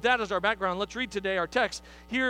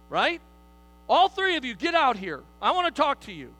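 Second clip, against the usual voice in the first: parent summoning; 4 dB louder than usual. Acted. Parent voice continues.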